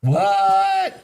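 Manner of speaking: sudden high, loud what; a stunned, high-pitched what; startled what. Real, not acted. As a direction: shoot up in real disbelief. Hears surprising market claim.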